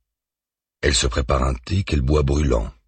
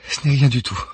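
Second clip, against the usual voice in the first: reassuring; 9 semitones higher than usual. A narrator's reading. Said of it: "assure-t-elle".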